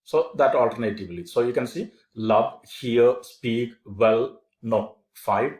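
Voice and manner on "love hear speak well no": "love, hear, speak, well, no" as separate strong beats; stressed syllables. Shown as a demonstration. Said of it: "stressed syllables".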